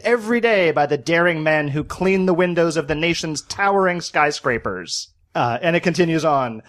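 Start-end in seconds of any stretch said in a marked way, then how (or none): 0.0-5.1 lightly done vintage newsreel announcer; a hint of a thirties newsreel narrator; old-timey newsreel voice. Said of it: "old-timey newsreel voice".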